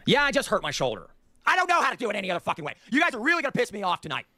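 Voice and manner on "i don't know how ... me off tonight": exasperated, rising rant; escalating comedy rant. Real, not acted. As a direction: build up the annoyance.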